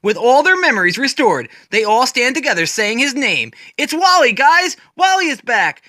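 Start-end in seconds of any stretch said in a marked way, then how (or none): 3.8-5.8 higher, bright joyful reunion cry; smiling, excited shout to the team; cheerful with a smile. Acted. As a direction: announce it like the best news all day. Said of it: "they say with a smile".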